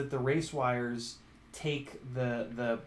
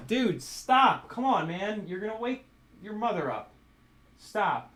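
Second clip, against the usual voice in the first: loud, higher shout of stop; yelling at the cat; 7 semitones higher, 4 dB louder than usual. Real, not acted. Owner yelling at his cat to stop pawing the glass, loud and sharp. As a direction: snap at the cat to quit it.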